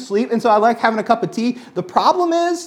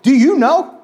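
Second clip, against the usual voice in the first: higher, louder mock-indignant question; retold angry jab; 5 semitones higher, 5 dB louder, slower than usual. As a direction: snap it back like the offended patient. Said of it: "But I was just super angry".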